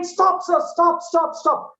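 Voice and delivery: high, rapid-fire urgent warning; acted plea to halt, pitched high; urgent calling out. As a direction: imitate a stranger rushing up to stop someone. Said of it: "that stranger is running and telling".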